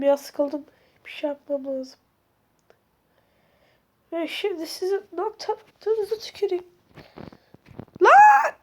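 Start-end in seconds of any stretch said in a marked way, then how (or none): 1.0-2.0 whisper. Real, not acted. Whispered while tense. 8.0-8.5 high, loud shriek of fright; sudden terrified shriek; startled scream. Real, not acted. Sudden jumpscare.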